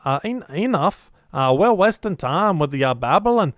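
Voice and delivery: impatient dwarf rallying for a fight; punchy, swooping dwarf accent; rally them like a battle-ready dwarf. Acted. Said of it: "we don't get to do dwarf voice".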